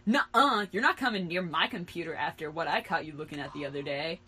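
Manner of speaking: loud refusal, settling down; shout. Acted. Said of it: "I shouted".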